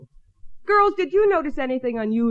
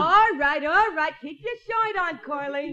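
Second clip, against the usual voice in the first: put-on Brooklyn accent; 5 semitones higher than usual. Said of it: "Somehow from you it sounds natural".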